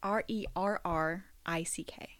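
hushed, deliberate letters; whispered spelling. Real, not acted. Host spells the ghost's name to co-host, whispering.

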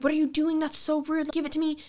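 whiny retold objection; retold indignant protest. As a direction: complain like a wronged little sister. Child quarrel with brother retold.

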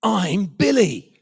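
loud, drawn-out punchline; exasperated outburst. Retold or imitated. Dad revealing whom he was calming, exasperated burst. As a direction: act out a dad finally losing his cool.

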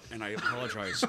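laughing through the words. Real, not acted. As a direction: giggle while apologizing. Funeral confession, laughing.

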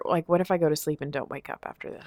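hushed fearful whisper; whispered worry. Real, not acted. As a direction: whisper the dark thought. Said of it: "a little bit of a fear".

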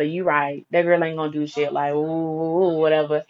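soft, low sarcastic giving up; resigned mock agreement. Teller giving up arguing with friend, sarcastic. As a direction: say it quiet, done with her.

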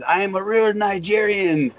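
hammed-up Nigerian accent; mock Nigerian accent. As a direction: imitate a wrestler's Nigerian accent. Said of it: "Where the fuck did this accent come from?".

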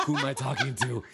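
retold panic.

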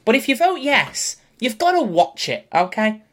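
a playful silly voice laying down the rules; odd character voice. Pretend. Host warning poll voters, odd put-on voice. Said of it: "I don't know what this voice is".

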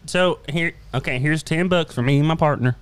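lightly voiced eager customer; festival customer. Player voices customer at booth.

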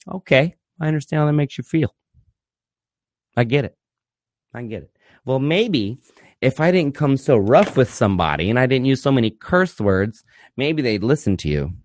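patronizing counselor act, measured and halting; mock therapist. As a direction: lightly imitate a placating therapist, with pauses. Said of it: "I can't sit here and go".

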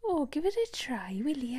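coaxing in a lilting Welsh accent. Shown as a demonstration. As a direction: coax with a South Wales lilt. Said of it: "let's talk in a Welsh accent".

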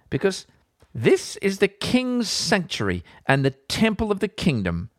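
mild, rising scornful rebuke; priest's rebuke. Acted. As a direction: drive the prophet away. Amaziah expels Amos.

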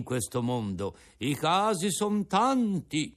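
put-on an old father offering his breakfast; old Geppetto. Geppetto moralises.

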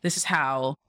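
mock-calm reasonable boyfriend; calm, respectful. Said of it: "in a calm and respectful way".

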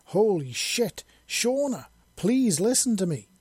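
high, loud, pleading yell; desperate yell. A narrator's reading. Faith pleads while dodging Shauna's punches, desperate yell. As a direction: shout for your life, begging. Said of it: "Faith yelled as she desperately ducked".

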